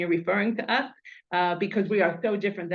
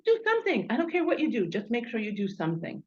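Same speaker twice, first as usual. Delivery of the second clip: bright, higher urging voice, fading out at the end; quoting late husband; 3 semitones higher, faster than usual. Retold or imitated. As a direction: urge them on as he would have. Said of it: "he was the kind of guy who just said".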